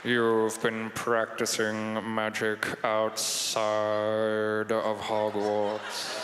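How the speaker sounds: low, very slow Snape drawl; Snape's voice. Acted. Snape catching the boy doing magic, very slow low drawl. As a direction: savour each word like a disdainful professor. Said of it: "Snape's voice".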